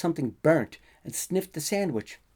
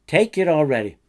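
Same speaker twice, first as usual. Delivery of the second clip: louder, fed-up order; exasperated; 3 semitones higher, 10 dB louder than usual. Acted. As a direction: lose patience and push it at him. Exasperated at repeated checking.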